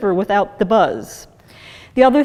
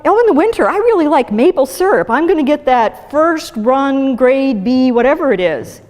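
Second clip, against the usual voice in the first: higher, quick, sweetly helpful mock voice; well-meaning friend; 3 semitones higher than usual. Well-meaning people suggesting honey, mock sweet and chirpy. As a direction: lightly mimic a helpful friend. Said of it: "well-meaning people will say".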